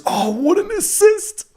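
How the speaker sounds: very high, drawn-out marvelling cry; amazed squeal. Real, not acted. Streamer watching Ekitike's assist, high-pitched amazement. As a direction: squeal in awe at the pass.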